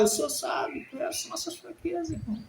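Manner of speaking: high, thin voice dropping to a whisper; moved preaching. Real, not acted. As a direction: let the voice give way, high and soft. Overcome mid-preaching, voice gives way. (voz embargada, aguda e baixa)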